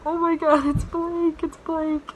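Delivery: high, loud excited recognition; high, thrilled fan recognizing him; starstruck. Retold or imitated. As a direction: blurt his name like a thrilled fan. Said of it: "I was like".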